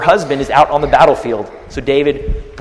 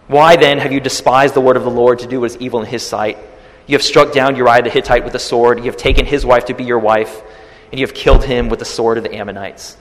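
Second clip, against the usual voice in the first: preaching at full force. Acted. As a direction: thunder it like a prophet before the king. Prophet proclaims God's words.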